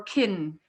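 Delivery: "kin" with a small short "i"; reduced vowel. Shown as a demonstration. Teacher offering an alternative for the syllable, "kin" with reduced vowel. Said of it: "So you could say".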